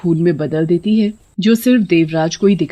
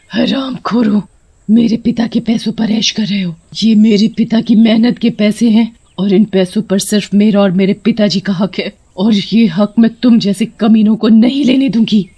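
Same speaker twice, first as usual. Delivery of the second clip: mildly raised, angry witch voice; indignant anger; 3 semitones higher than usual. Acted. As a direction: fume at the villains in rising indignation. Witch curses her father's exploiters. (आक्रोश भरा स्वर)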